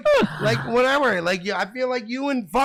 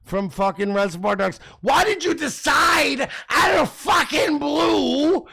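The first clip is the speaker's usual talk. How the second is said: higher, slow, heated yelling; mock-outraged shouting at his co-host; 4 semitones higher, slower than usual. Real, not acted. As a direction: drag it out, shouting him down.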